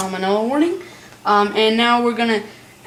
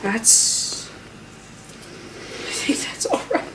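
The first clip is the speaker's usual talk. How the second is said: laughing; 8 semitones higher, 7 dB quieter, much slower than usual. Real, not acted. Sugar ran over.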